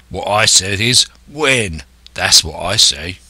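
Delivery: mild, insistent sailor's grumble; growled. Acted. Coxswain pressing Silver for a date, mildly growled. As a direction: dig in like a grumbling seaman. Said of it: "growled the coxswain".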